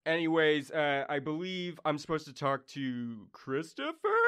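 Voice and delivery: god of bliss explaining the royal choice; casual god voice. Acted. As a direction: brush off the boring task lightly. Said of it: "you just hear him go".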